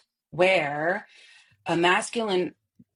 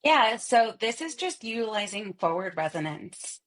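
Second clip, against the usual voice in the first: bright forward nasal voice, high and whiny; 4 semitones higher than usual. Shown as a demonstration. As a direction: push the sound forward into the nose, whiny. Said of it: "can you do that example of almost like the high and whiny".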